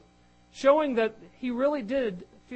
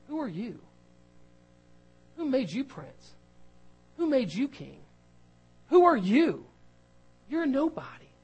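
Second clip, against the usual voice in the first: taunting Hebrew brother; 2 semitones higher than usual. Retold or imitated. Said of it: "the words from a Hebrew brother ... rung in his ears".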